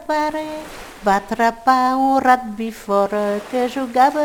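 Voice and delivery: sing-song nursery rhyme recital; little rhyme recited. Shown as a demonstration. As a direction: recite it like a children's counting rhyme. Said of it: "C'est tout petit, mais c'est mignon".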